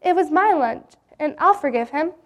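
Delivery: high pleading cry to stop him; boy cries out to the teacher, pleading. Acted. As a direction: burst in, begging him to stop. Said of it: "Jim cried out".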